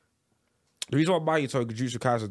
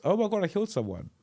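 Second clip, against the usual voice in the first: higher-pitched, blithe mock villain; carefree killer; 5 semitones higher than usual. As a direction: play a killer who finds it all fun. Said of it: "how carefree he is".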